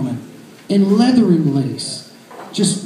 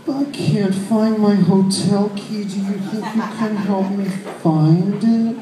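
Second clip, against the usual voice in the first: seductive purr. Retold or imitated. Seductive woman voiced.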